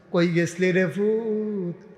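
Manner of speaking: slow, drawn-out plaintive call; acted slow wail to a son; lamenting father. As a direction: stretch the last word into a lament.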